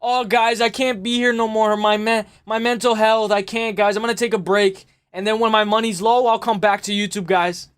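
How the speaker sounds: mock whiny fighter. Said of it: "he complains like Lucas Tracy".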